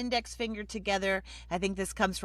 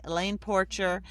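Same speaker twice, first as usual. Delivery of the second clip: normal talking voice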